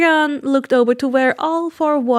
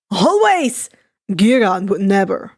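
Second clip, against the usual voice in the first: piped up; 4 semitones lower than usual. Acted. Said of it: "Twice piped up".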